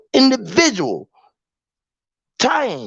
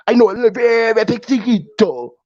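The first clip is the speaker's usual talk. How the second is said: put-on Spanish accent. Telling the translator he knows poquito, in a hammed-up Spanish accent. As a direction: stretch "very" and ham up "poquito" in mock Spanish. Exaggerated retake of the poquito line.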